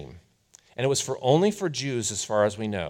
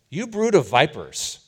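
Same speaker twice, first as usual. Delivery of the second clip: louder, higher rebuke; prophet's rebuke; 5 semitones higher, 6 dB louder than usual. Retold or imitated. John the Baptist rebuking the hyped-up crowd, loud and stern. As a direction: cry it out like a desert prophet. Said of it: "He says".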